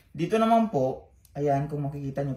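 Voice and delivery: speaking with a cold; stuffy nose. Real, not acted. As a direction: talk through a blocked nose. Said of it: "may sipon ako".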